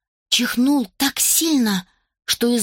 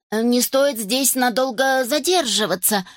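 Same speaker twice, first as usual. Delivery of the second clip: decisive; 3 semitones higher than usual. Acted. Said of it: "решительно заметил Гектор".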